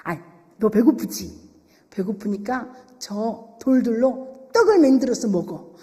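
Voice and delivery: low, insinuating devil's coaxing; sly, smirking tempter. Acted. Devil tempting hungry Jesus to turn stones into bread, sly. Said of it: "희죽희죽 웃으면서 얘기하는".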